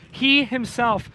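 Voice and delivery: "He himself" slowed, each pronoun weighted; stress on both pronouns. Shown as a demonstration. Preacher repeating the heaped-up pronouns, emphatic "He himself". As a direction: press slowly on "He himself". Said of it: "He's heaping up the pronouns".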